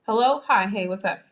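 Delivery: curt phone greeting of an upset friend; short and terse. Acted. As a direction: keep each phrase short and abrupt. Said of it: "really short phrases with you".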